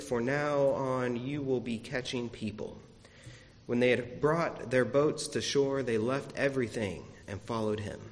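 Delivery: measured, solemn gospel reading; reading scripture aloud from the pulpit. Acted. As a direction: read the lesson to the congregation. Reads the gospel lesson.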